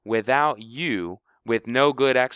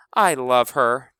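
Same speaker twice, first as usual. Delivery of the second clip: put-on bright, slow little-girl chirp; a hint of an excited little sister; lightly voiced chirping child; chirpy little girl; 4 semitones higher, 8 dB louder, slower than usual. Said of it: "chirped Honey".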